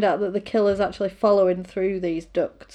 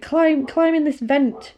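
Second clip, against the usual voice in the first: put-on slow, higher little girl voice; slow little girl coaxing someone into a vent; 6 semitones higher than usual. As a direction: coax like a small girl, slowly. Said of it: "it turns out that it's a little girl".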